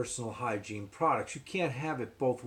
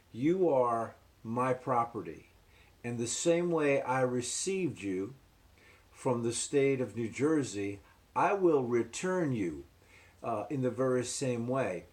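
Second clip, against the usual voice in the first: cold halfway-house official. Retold or imitated. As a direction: tell him coldly he is hers to return. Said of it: "she said to me".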